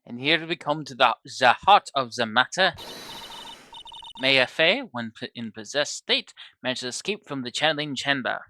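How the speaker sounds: dramatic testimony in a mock German accent; bad German accent. Witness building up to the key point in a bad German accent. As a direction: lean into a clumsy German accent. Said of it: "I have a very terrible German accent".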